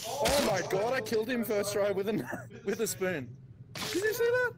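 high, loud thrilled shouting; excited. Real, not acted. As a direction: celebrate the kill loudly. Thrilled spoon kill.

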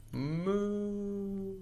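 soft sweet high moo. Shown as a demonstration. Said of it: "sweet as a song".

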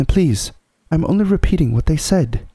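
put-on high, pleading boy's voice; mild stammer. A narrator's reading. Edmund excusing himself to the Queen, slightly stammering. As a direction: plead innocence with a touch of fright. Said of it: "stammered Edmund".

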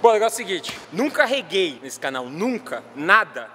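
talking with stitches in mouth; after wisdom teeth. Real, not acted. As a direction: speak carefully around a sore mouth. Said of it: "eu estou com pontos na minha boca porque eu tirei o dente do siso".

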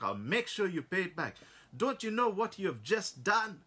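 furious. Acted. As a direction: threaten him with court, building rage. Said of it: "he was really furious and fuming".

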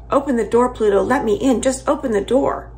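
loud, high desperate shout. Acted. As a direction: pound the door and yell for her. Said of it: "shouting over and over".

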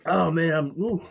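loud, high, wild rush of relief; hammed-up addict riding the high. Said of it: "the drug and alcohol addict".

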